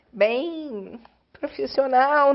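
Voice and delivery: tearful, dragged-out words; slow tearful words. Real, not acted. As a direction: drag the words out while crying. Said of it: "aqui eu tô chorando".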